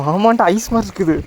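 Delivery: gasping at icy water; in ice cold water. Real, not acted. தண்ணி எப்படி இருக்குன்னு தொட்டு பார்த்து.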